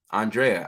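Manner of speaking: Andrea drawn out slowly as ahn-DRAY-uh; careful pronunciation. Real, not acted. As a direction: sound out "Andrea" with an "ah" start. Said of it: "I got it right".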